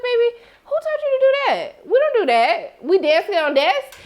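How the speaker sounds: high, scolding mock-mom voice; scolding auntie. Viewer scolding the dancing boy, high mock-scolding. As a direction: scold the child from the couch. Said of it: "And I was like".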